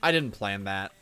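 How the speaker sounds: loud. Real, not acted. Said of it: "I've gotta be honest".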